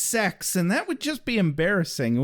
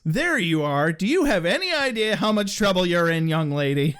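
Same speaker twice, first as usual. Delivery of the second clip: demon dad voice. Retold or imitated. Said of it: "in his demon voice".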